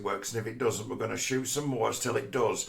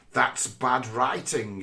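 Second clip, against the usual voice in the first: mock critic; much slower than usual. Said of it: "video essays saying".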